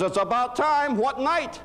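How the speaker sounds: grudging, then sharp; the husband responds to her news, mock sarcastic. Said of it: "He says".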